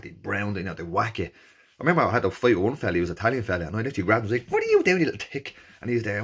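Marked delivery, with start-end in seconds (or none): 4.5-5.6 high, loud furious yell at a swimmer; retold angry yell mid-race; angry shout. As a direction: bark it at him like a brawl in the water.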